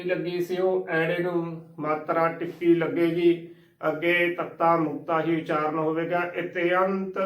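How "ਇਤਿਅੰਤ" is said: ਇਤਿਅੰਤ as "ite-ant"; correct pronunciation demo. Shown as a demonstration. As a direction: say ਇਤਿਅੰਤ with "te-ant" as separate vowels. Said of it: "ਉਚਾਰਨ ਕਰਨਾ ਹੈ".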